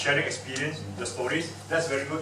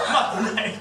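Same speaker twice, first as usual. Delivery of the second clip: laughing; 6 semitones higher, 4 dB louder than usual. Acted. Joking refusal, laughing.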